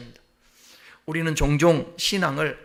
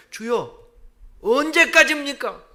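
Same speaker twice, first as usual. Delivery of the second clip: pleading complaint; 7 semitones higher than usual. Acted. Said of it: "다윗이 고백할 때 이런 고백도 해요".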